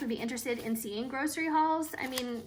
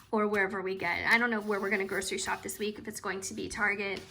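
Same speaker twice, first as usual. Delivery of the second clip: hoarse, fading voice; losing voice; faster than usual. Real, not acted. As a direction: voice giving out from illness. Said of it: "I am losing my voice a little bit".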